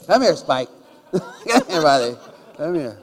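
loud call to the dog through laughter; calling his dog Spike with a laugh. Retold or imitated. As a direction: laugh while you call the dog over.

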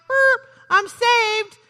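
high, loud, slow and satisfied; hammed-up burp, then a self-satisfied announcement; smug mock burp. Believer content after the first cup, mock smug and slow. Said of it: "you drink that first cup and you're like".

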